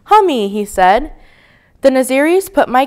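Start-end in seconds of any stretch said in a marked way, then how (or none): 0.0-0.5 put-on high toddler chirp; high little mispronounced name; little child's voice. A narrator's reading. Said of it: "a little voice called out".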